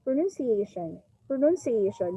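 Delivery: pronunciation as pro-nun-see-AY-shun; careful teacher's demo of pronunciation, "nun" in the middle; correct NUN vowel. Shown as a demonstration. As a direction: say pronunciation with NUN, never NOUN. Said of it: "That's how you pronounce pronunciation".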